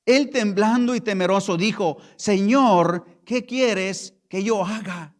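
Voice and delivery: loud, emphatic scripture reading; preaching the verse. Acted. Pastor reads Hechos nueve to the church, loud. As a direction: drive Paul's words home to the church.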